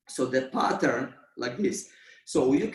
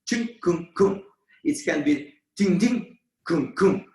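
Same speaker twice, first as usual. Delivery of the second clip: percussive accent sounds; 3 semitones higher, 3 dB louder than usual. Shown as a demonstration. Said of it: "percussive accent".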